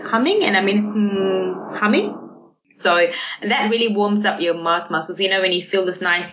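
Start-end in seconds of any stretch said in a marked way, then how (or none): 0.0-2.2 demo hum. Shown as a demonstration. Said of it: "you can do, like".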